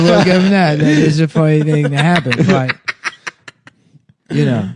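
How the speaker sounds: lightly put-on, slurred impression voice; Donald Trump. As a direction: loose mock-politician voice. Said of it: "Trump with a retarded voice".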